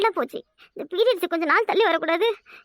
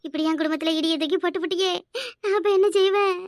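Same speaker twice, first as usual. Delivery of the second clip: wailing complaint to God; tearful lament. Acted. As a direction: lament through tears, breaking into sobs at the end. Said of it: "ரெண்டு பேரும் மாறி மாறி அழுறீங்க". (கடவுளிடம் அழுது புலம்பல்)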